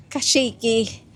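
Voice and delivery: talking while bouncing on an ATV; on a bumpy road. Real, not acted. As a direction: voice jolted by a bumpy ride. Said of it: "Hindi lang medyo, sobrang alog pala".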